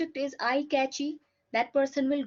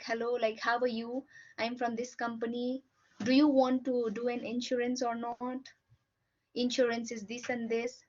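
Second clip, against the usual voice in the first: friendly sales call. Shown as a demonstration. A telemarketer gently greets a customer, friendly and unhurried. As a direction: ease the caller in gently, no pushing. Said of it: "Gradually explaining in a friendly way".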